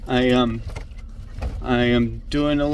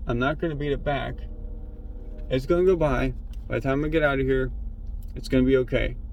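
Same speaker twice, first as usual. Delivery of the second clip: hushed and tense, softer throughout; real panic attack; 11 dB quieter than usual. Real, not acted. Alone in the car at the tracks, hushed and frightened. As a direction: talk yourself through a panic under your breath. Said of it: "I'm having a panic attack".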